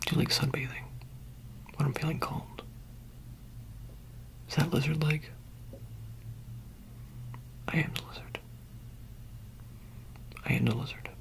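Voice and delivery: hushed roleplay musing. Pretend. Soft-spoken roleplay musing.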